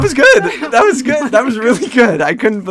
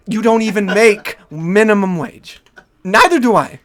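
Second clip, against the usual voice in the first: mock indignation; 5 semitones higher, 5 dB louder than usual. Professor argues with courier in skit.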